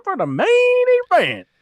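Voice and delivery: high, loud mock announcer voice; Mark Henry impression. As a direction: bellow it high like a hammy ring announcer. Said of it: "Mark Henry's like".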